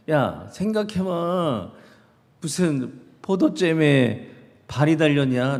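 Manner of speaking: lightly voiced mom laying into her son; mother scolding. Mother scolding her son for lying, mild mock anger. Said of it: "막 야단을 치는 거예요".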